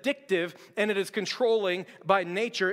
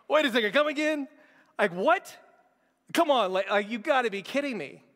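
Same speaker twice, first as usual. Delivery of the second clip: incredulous disbelief; 5 semitones higher than usual. Retold or imitated. Team stunned by lady's answer.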